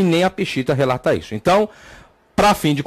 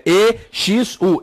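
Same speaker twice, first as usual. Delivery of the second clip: slow letter-by-letter spelling; spelled out; 3 semitones higher, much slower than usual. Shown as a demonstration. Teacher spelling the candomblé name, slow separate letters. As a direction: spell it slowly, each letter apart. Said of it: "é com X".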